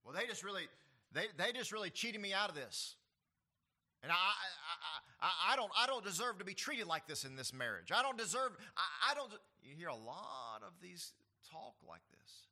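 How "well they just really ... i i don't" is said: loud, higher, stammering self-pity; hammed-up wronged spouse, sputtering; mock aggrieved complainer. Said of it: "They say things like this".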